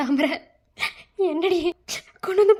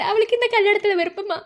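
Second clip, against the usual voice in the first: tearful plea; 3 semitones higher than usual. Acted. Mother to her mother-in-law, tearful plea. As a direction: beg her through tears.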